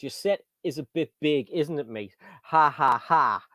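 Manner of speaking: lightly put-on London accent. Reading Craig's chat message to the host, light London accent. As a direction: slip into a touch of London. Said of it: "is that your London accent".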